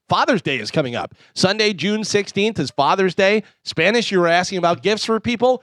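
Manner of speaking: upbeat sponsor read. Acted. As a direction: sell the shoes like a live radio spot. Reads sponsor ad.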